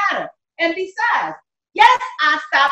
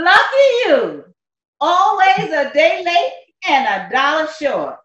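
slow, drawn-out sarcasm; unimpressed, stretching the words out; sarcastic. Acted. Woman answers the prisoner's good news, sarcastic. Scornful reply to his news.

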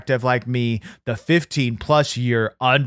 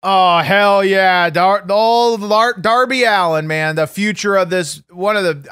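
excited; 5 semitones higher, 5 dB louder than usual. Real, not acted. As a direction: whoop it out like a fanboy. Host hyped about wrestler.

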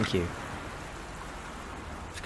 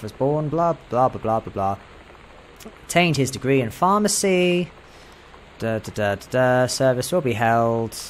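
skim-reading. Acted. Reads obituary aloud, skimming.

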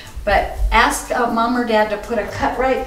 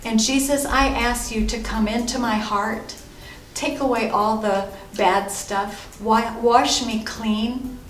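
prayer to repeat. Shown as a demonstration. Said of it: "why don't you pray after me".

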